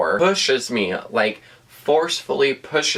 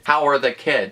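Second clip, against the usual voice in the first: higher, syrupy imitation; mock sweet husband; 5 semitones higher than usual. Mimicking him asking his wife about the kids, syrupy. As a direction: lightly ham up his sweetness. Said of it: "He's like".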